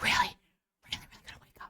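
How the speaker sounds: hushed, insistent, urgent breathy whisper. Showing how they would wake someone up: whispering. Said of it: "because I'm whispering right now".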